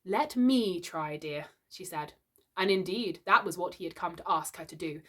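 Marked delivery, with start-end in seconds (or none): 0.0-1.5 placid. Acted. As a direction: soothe the angry husband. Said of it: "Missus Darling was placid".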